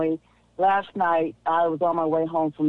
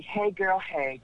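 real worn-out exasperation; softly exasperated greeting, trailing off in volume; 3 semitones higher, 4 dB quieter, slower than usual. Real, not acted. Caller greeting the host after hours away, exasperated. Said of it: "Do I sound exasperated?".

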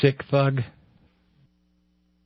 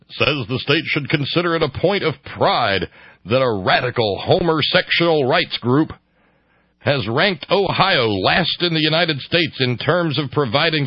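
higher, earnest mock activist read; mock pro-family activist; 6 semitones higher than usual. Host reads an Ohio activist's statement, mocking. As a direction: read it as a worked-up activist, pitched up. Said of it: "people that actually talk like this".

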